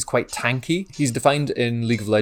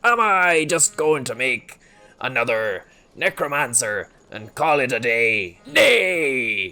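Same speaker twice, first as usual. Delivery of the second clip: Irish-tinged pirate voice. Pretend. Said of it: "I'm Irish now".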